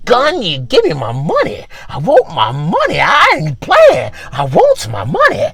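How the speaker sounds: lightly voiced menacing loan collector; mock threat, with swoops on the key words; aggressive debt collector. Underwear demanding money from its wearer, mock threatening.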